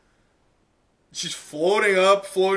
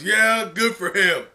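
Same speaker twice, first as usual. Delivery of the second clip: louder, higher dismissive retort; heckler scoffing; 3 semitones higher, 4 dB louder than usual. Acted. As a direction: scoff back from the crowd. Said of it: "someone in the crowd goes".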